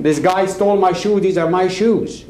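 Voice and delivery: half-yelled indignant claim; retold yelling. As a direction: protest as if reenacting a quarrel. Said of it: "I'm yelling".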